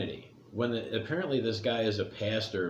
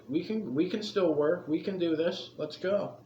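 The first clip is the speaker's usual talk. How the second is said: high, upbeat rallying voice; plucky can-do cheer; 6 semitones higher than usual. Retold or imitated. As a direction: cheer them on, brightly pitched up. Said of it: "the British are like".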